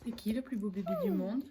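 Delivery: high, soft cooing. Real, not acted. Cooing at the baby. (voix douce pour bébé)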